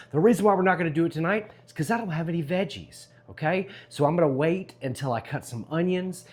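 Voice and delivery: loud upbeat barbecue host; big cheerful pitch to the camera; jolly loud grill dad. Acted. Energetic vlog intro.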